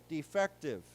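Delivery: Defective said clearly, stress on fec. Shown as a demonstration. Teacher drilling Defective for students, clearly. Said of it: "Let's say it's".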